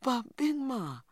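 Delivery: put-on high child's protest; a small boy protesting in a high voice; protesting little boy. A narrator's reading. Little boy protests to grandmother in a high voice. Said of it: "Little Man protested".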